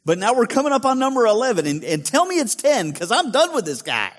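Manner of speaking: pleading, fed-up Peter voice; exasperated Peter. Retold or imitated. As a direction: beg to hear it's ten. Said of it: "He was like".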